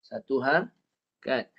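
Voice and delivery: slow, measured syllables with a break; not shortened. Shown as a demonstration. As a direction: give each syllable its full length, slowly. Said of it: "Okey, jangan kurang".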